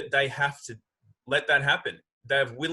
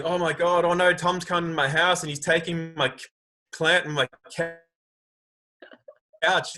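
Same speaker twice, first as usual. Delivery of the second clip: higher and louder, hammed-up panic; mock panic; 5 semitones higher, 4 dB louder than usual. Man mocking someone panicking over plant and couch, hammed-up panic. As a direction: squeal it like a fake freak-out. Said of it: "if you start going".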